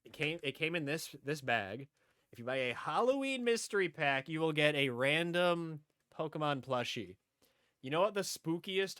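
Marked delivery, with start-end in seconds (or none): 2.3-4.3 Halloween weighted inside the phrase; Halloween said as the key word of the phrase; stress on Halloween. Shown as a demonstration. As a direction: punch Halloween again. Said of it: "emphasis on Halloween".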